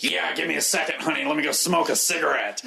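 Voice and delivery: put-on voice of a little wind-up doll performer; Wendy Powell. Doll performer excusing herself for a smoke, impression voice. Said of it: "like a small version of Wendy Powell".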